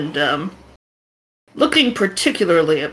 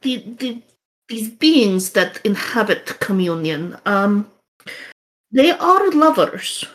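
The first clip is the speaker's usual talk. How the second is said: put-on Russian accent. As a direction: tell the legend gravely, Russian accent. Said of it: "the shaman's gonna sound a lot like the guy you just talked to".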